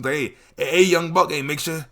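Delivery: lightly voiced elder lecturing a young buck; mock wise uncle advice; old head advice. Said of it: "walk up to me and hit me with that".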